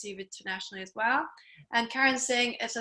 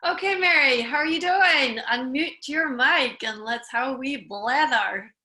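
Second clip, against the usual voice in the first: emphasized Scottish; 5 dB louder, slower than usual. Real, not acted. Host greeting Mary on the show, in emphasized Scottish. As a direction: lay the Scottish on thick, drawing out the last words. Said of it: "really emphasizing my Scottishness".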